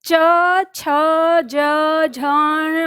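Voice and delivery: च, छ, ज, झ, ञ each said apart and clearly; palatal letters demo. Shown as a demonstration. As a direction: sound out च छ ज झ ञ for the class to repeat. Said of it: "हर वर्ण के बाद पता चलेगा". (च, छ, ज, झ, ञ का अलग-अलग स्पष्ट उच्चारण)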